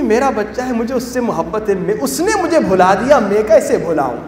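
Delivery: softly voiced forgiving mother; hushed, lightly acted tender reply; retold motherly devotion. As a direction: act out a mother's gentle plea.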